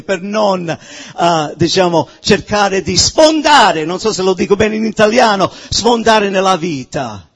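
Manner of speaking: ordinary talk, nothing marked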